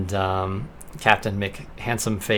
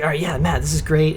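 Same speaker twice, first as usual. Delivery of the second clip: mildly excited, a bit higher pitched; 4 semitones higher than usual. Retold or imitated. Director praises his new candidate, mildly excited. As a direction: imitate a director pleased with the take, lightly. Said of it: "he got excited".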